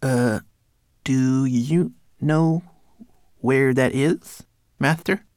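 high, slow, tentative asking; timid little servant voice; cautious question. A narrator's reading. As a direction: ask gingerly, word by word. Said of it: "he asked quietly".

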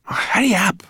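urgent whisper. Acted. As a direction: whisper to hurry him. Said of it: "whispered Sorrel".

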